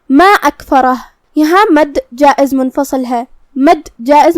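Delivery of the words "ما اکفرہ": ما held long before اکفرہ; lengthened madd. Shown as a demonstration. Teacher showing madd to learners, ما drawn out long. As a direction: stretch the vowel of ما, then recite اکفرہ. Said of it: "ہم اپنی آواز دو سے چار مد".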